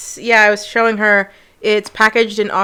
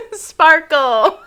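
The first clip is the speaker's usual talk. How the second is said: high, loud imitation of a furious kid; mock angry German scream; 7 semitones higher, 5 dB louder than usual. Cousin imitating kids' game, mock angry shouting. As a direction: shout the sweet word like a tiny tyrant. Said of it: "they're just screaming little German words".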